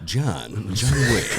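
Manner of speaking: a hint of a rich, gravelly drawl; Ian McShane. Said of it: "he talks like this".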